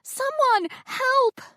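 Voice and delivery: high, slow, loud call for help; yelled. Acted. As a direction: stretch it out to be heard far off. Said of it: "I also yelled".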